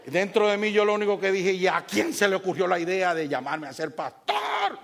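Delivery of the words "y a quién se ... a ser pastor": laughing through the words; half laugh at his own anger. Real, not acted. (riéndose de su enojo)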